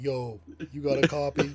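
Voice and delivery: mock street accent, yo; imitating an African American accent. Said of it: "I kinda answered like Tyrone".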